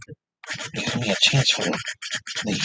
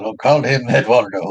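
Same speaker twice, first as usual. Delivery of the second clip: 1 quoting a cartoon teacher; 5 dB louder than usual. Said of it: "he said".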